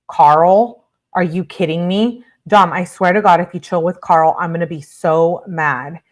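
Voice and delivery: outraged read-aloud text, loud on the name; mock indignant outburst; incredulous anger. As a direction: act out a jealous girlfriend's disbelief. Acted angry texts about Carl.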